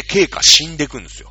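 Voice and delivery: loud, emphatic announcement. Real, not acted. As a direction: punch the news out. Repeats the line for effect.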